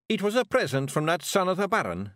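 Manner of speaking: rowdy little Scots pixie voice; broad Scottish accent. Acted. Rob explains.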